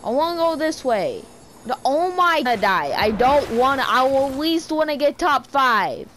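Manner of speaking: loud, fast frustrated yelling at the game; real screaming. Real, not acted. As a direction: yell at the game in real panic. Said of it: "I'm screaming".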